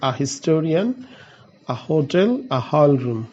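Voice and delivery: drawn out very slowly; slow example word. Shown as a demonstration. Teacher showing an example to students, slowly. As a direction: stretch the example so it lands. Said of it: "তো আমরা যদি বলি".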